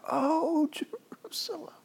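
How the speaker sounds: high, breaking wail trailing into whisper; acted audible weeping; weeping out loud. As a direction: cry the words slowly, voice thin and high. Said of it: "He's weeping out loud".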